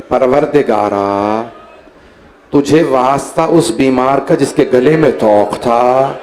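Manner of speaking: low, hushed opening of a dua; solemn prayerful plea; supplication prayer. Real, not acted. Begins supplication.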